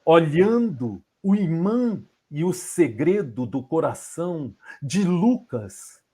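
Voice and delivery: poetry declamation. Shown as a demonstration. Poet improvising a poem for Lucas, declaiming. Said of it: "vou recitar pra vocês da forma como eu recito".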